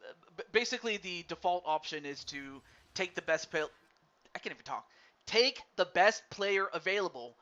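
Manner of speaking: thick, sticky-mouthed speech; mouth full of peanut butter. Real, not acted. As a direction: talk like peanut butter coats your mouth. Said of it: "I sound like I have peanut butter in my mouth".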